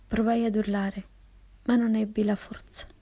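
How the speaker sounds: usual speaking voice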